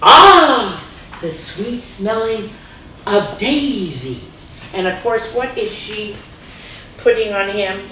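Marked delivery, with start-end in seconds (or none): 0.0-4.5 dreamy. Acted. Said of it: "Ruth sniffing flowers".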